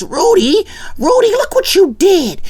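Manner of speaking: high, wailing complaint; outraged big brother. Retold or imitated. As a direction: whine it like the world just ended. Theo outraged at Rudy.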